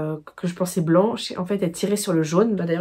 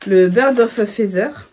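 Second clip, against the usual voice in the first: English title in a French accent; 4 dB louder, slower than usual. Real, not acted. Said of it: "avec mon accent".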